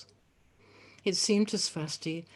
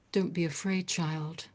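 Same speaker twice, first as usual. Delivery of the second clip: quiet and reassuring. Acted. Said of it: "in a quiet and reassuring voice".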